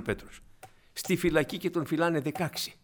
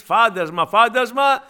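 loud, higher cry of alarm; frightened cry; 7 semitones higher, 10 dB louder, slower than usual. Retold or imitated. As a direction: yell it like frightened men seeing a ghost. Disciples cry out in fear.

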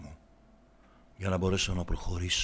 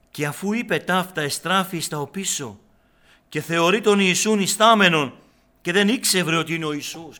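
a little louder, reading scripture with weight; solemn Gospel reading; 7 semitones higher, 10 dB louder than usual. Real, not acted. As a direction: proclaim the Gospel passage. (επίσημη ανάγνωση Ευαγγελίου)

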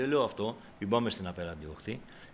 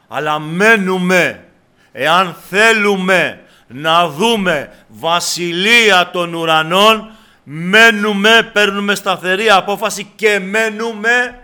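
high, slow shouted exhortation; full-force preaching; 9 semitones higher, 16 dB louder, slower than usual. Real, not acted. Preacher urges believers to stay on the narrow road, shouted exhortation. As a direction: drive every word home, stretched and loud.

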